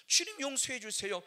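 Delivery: a pastor crying out in repentance; fervent repentance. Retold or imitated. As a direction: beg forgiveness with full force. Fervent repentance prayer retold.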